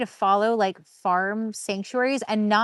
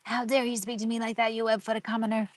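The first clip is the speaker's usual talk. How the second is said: evil queen; 6 dB quieter than usual. Retold or imitated. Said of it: "Gabby's been quoting hoppers all day".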